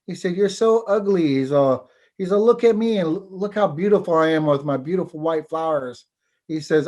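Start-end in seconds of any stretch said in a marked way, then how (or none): 0.4-1.3 higher, louder, sneering dismissal; high, loud, disdainful tree voice; scornful dogwood tree. Acted. Dogwood insults bird. 2.4-6.0 a hint of a proud, preening tree; vain dogwood bragging. Dogwood brags about flowers.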